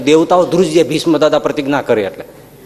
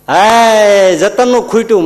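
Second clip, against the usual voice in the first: surprised exclaim; 5 semitones higher, 4 dB louder, slower than usual. Acted.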